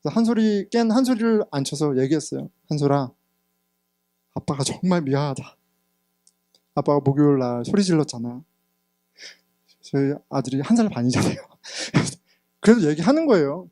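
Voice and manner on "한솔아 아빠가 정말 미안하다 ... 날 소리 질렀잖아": tender apology. Retold or imitated. Father apologizing to baby son. (아기 아들에게 부드럽게 사과하듯)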